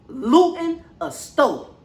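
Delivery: slow, drawn-out disbelief; stretched-out disbelief; incredulous repeat. Real, not acted. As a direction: say it like you can't believe it.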